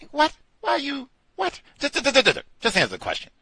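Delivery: high, loud baffled what; mock confusion. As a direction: play the confused caller, then insist. Acts out confused caller.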